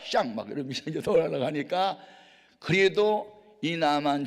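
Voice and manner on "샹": screamed high, furious dismissal; enraged general shouting go back; angry shout. Acted. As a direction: yell it as he storms off. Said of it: "화가 나가지고".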